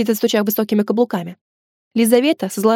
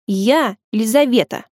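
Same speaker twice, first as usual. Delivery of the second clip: sulky grumble; slower than usual. Acted. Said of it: "пробурчала она".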